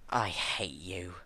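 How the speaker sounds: slow, cold whispered hatred; calm whisper straight into her eyes. A narrator's reading. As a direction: breathe it out without heat. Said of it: "as calmly as possible".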